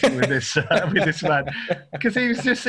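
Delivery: usual speaking voice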